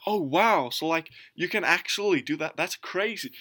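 high-pitched, credulous wonder; mock amazement. Imitating Americans believing the sunscreen story, naive amazement. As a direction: play the awed, gullible listener.

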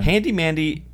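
"Mandy" with a clear d, said as Handy Mandy; says Mandy. Real, not acted. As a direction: put a d into "Mandy" in your New York accent. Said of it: "You called him Handy Mandy".

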